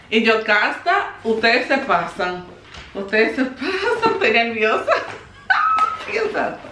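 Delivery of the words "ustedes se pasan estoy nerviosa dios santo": high, giggly overwhelmed squeal; real nerves, voice jumping up high; nervous excitement. Real, not acted. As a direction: break into nervous laughter.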